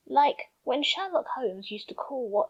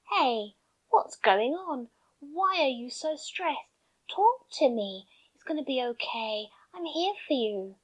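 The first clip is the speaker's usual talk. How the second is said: nice calm tone. Shown as a demonstration. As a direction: soothe a stressed friend gently. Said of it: "say in a nice, calm tone".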